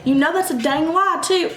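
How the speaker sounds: retold angry callout; angry retort. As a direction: call out the lie heatedly. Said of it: "I was cussing 'cause I was mad".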